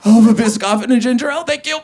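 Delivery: high, loud through sobs; hammed-up crying voice; mock tearful order. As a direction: order snacks while still blubbering. Sobbing order to attendant.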